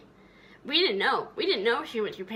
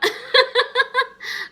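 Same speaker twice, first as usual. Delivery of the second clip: burst of laughter; 10 dB louder than usual. Real, not acted. Laughing after imitating mom.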